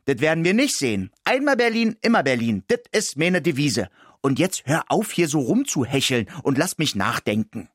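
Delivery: high, quick defiant mouse voice; stubborn little city mouse holding her ground. Acted. The mouse refusing Ismir, high and defiant.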